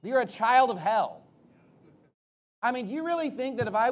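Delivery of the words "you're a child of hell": louder, slow and weighty imitation of a rebuke; mild retold yell. Preacher quoting Jesus at the Pharisees, a measured mock yell. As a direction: retell a yell with some force, stretched out. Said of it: "when he's yelling at the Pharisees".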